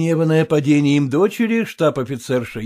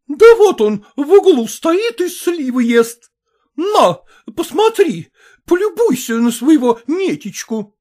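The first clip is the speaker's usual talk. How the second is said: higher, loud, contemptuous; furious shouting; 10 semitones higher, 7 dB louder than usual. A narrator's reading. Mother shouts that Maternitskaya lies, furious. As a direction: scream her down.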